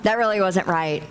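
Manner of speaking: low, mocking accuser; doubting enemy voice. The enemy telling you that you misheard God, low and mocking. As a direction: drop the voice to plant doubt. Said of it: "that voice comes in going".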